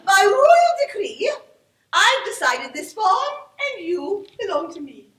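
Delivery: loud regal proclamation fading down; mock royal decree. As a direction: proclaim like a queen. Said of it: "The royal voice of command".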